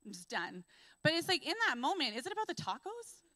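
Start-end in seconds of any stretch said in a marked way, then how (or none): 0.0-0.6 much softer, low, worn-out mumble; teary defeat. Retold or imitated. Upset roommate heading upstairs after spilled tacos, soft and teary. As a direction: speak it drained after crying. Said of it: "and I'm like".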